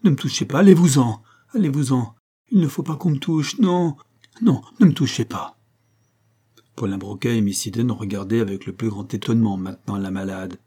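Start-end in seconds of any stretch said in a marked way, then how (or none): 0.0-5.6 high, insistent cries of refusal; frightened cry. A narrator's reading. Sick woman recoiling from her rescuers, high panicked cries. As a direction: beg them off in panic. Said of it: "cria-t-elle".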